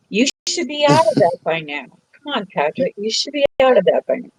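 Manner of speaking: gentle scolding. Real, not acted. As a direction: scold them gently, like a nudge. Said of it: "I'm scolding you very gently".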